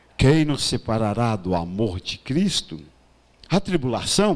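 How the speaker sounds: very low, slow, smooth velvety voice. Reading a Bible verse aloud to a group before asking them to answer: slow velvety voice. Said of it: "vou ler devagar com voz aveludada".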